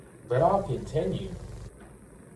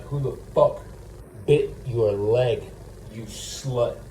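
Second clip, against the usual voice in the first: angry mock confrontation; 4 dB louder than usual. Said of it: "And be like".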